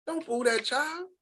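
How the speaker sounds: high, soft and slow, gently scolding; pleading. Retold or imitated. Retelling how she begged the booing crowd to spare the child, high soft plea. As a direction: ease it out like asking them to be kind.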